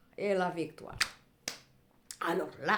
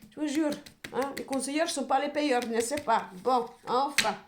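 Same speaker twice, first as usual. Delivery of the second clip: exasperated, a bit raised; worked up; 4 semitones higher, 3 dB louder than usual. Real, not acted. Reader fed up with advisers who never pay, worked up. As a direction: grumble it, louder and fed up. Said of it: "il faut que je me calme".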